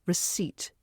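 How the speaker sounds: "Receipt" said re-SEET, with a clear final t; silent P. Shown as a demonstration. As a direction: leave out the p in "Receipt" and sound the t. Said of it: "The P is silent".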